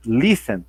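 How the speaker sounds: "Listen" pronounced with a strong "Lis" and weak ending; stress on first syllable. Shown as a demonstration. Teacher inviting students to pronounce it, "Listen" stressed on its first syllable. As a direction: hit the start of "Listen", then let it fall. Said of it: "o som mais forte é o início da palavra".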